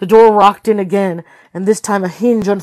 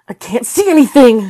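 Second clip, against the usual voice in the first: louder, higher sudden outburst; burst out; 4 semitones higher, 6 dB louder than usual. A narrator's reading. Jessica watching the screens, bursting out. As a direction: blurt it out, tense. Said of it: "she burst out".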